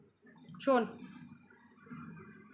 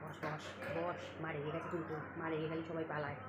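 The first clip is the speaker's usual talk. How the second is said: much softer, lower coaxing; hushed; 9 semitones lower, 15 dB quieter than usual. Real, not acted. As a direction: quietly coax the cat to sit. Softly talking to cat. (বিড়ালকে ফিসফিস করে বসানো)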